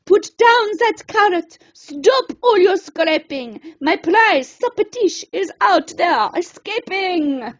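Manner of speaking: a bossy chef shouting after his escaping supper; chef's shout. Acted. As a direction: bark orders at the cooks. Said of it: "Chef started to shout".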